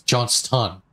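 Johnston with a strongly released T and a full "tun"; over-careful "Johns-TUN"; emphasized T. Shown as a demonstration. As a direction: hit the T in "Johnston". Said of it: "emphasizing and pronouncing T's".

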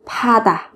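파다 with a puffed, aspirated "pha"; linked aspirated sound. Shown as a demonstration. Teacher explaining the linked sound to learners, 파다 clearly aspirated. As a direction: show the merged consonant in 파다. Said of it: "Nối âm lên thành âm".

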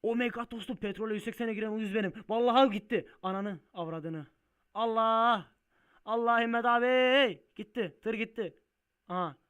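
high, very loud crash wail; frantic shouting. Real, not acted. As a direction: yell wildly as it all goes. Tır elden giderken feryat ediyor. (feryat figan bağırarak)

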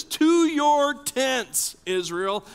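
drawn-out crowd call; rallying cry. Acted. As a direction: call the tribes away.

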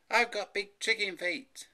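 put-on high, loud, slow boyish wail; yelping dismay. A narrator's reading. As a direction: wail it out slowly in shock. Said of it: "he yelped".

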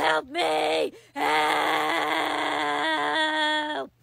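put-on old lady crying for help; desperate cries of help; calling for help.

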